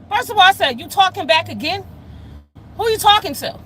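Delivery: reliving telling him off, pitch way up; indignant yell. Retold or imitated. Retelling yelling at son.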